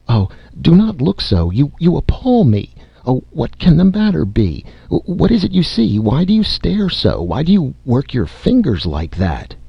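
high-pitched, frightened aunt, acted; alarmed crying out. A narrator's reading. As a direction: cry out in mounting alarm, pitch climbing high and dropping at the end. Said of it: "My aunt cried out".

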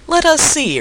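high-pitched, slightly miffed retort; lightly piqued storybook voice; somewhat piqued. A narrator's reading. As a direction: answer with a touch of wounded pride. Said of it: "somewhat piqued".

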